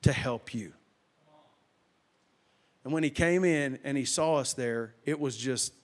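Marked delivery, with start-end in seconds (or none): 0.0-0.7 voice from nowhere. Retold or imitated. The voice answering the man, slow retold assurance. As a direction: answer as a mysterious voice, unhurried, with a pause. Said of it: "that voice told him".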